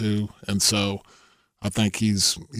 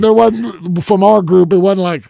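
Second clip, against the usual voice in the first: higher, louder, laughing through it; still laughing; 8 semitones higher, 10 dB louder than usual. Real, not acted. Still amused about the group's reaction, laughing through words.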